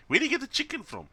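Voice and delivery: high, loud disbelieving question; incredulous squeak. Real, not acted. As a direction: ask it in total disbelief. Amazed at huge chicken.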